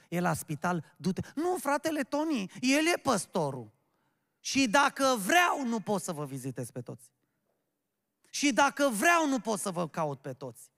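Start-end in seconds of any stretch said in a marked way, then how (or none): 1.3-10.7 higher-pitched mock protest, falling away at each end; protesting excuse. Church member passing the duty to the pastor, protesting.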